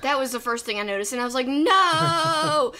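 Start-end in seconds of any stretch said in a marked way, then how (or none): 1.4-2.7 sudden loud high cry of dismay. Retold or imitated. Cohost recalling her reaction to the lineup, dismayed shout. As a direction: blurt it like the news just hit you.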